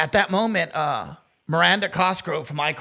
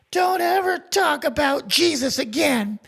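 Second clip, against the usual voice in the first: stern warning; 9 semitones higher, slower than usual. Retold or imitated. Drunk friend warns the actress.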